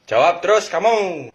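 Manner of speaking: loud, slow parent scolding; mock angry parent telling off the kid; parent snapping. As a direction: parent angrily scolding a child who talks back. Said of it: "ortu gue bilang".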